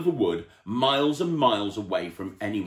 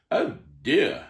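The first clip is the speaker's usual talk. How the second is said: kindly; 7 semitones higher, 5 dB louder than usual. Acted. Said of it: "for he was a kindly tramp".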